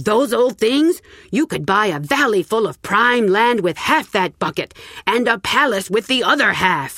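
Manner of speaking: scoffing farmer. Acted. Farmer mocking Auntie's wish for old land, scoffing. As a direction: scoff at her plan as a fool's bargain.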